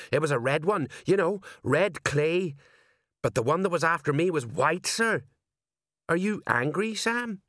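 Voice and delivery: high-pitched, dutiful underling voice; high, respectful sergeant reporting; eager deferential sergeant. A narrator's reading. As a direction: report to the boss, voice pitched well up. Sergeant's character voice.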